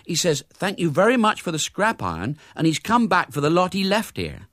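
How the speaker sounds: put-on high-pitched servant girl; high, simple servant voice; little maid. A narrator's reading. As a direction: relay the message as a young maid. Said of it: "the little maid entered".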